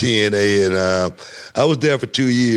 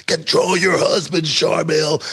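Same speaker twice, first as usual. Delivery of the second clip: imitating Kevin Nash; 8 semitones higher than usual. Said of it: "Kevin Nash came in".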